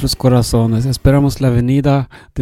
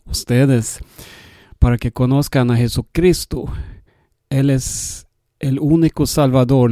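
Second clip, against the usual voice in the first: Swedish accent. Real, not acted. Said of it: "Yo soy sueco y hablo un poco español".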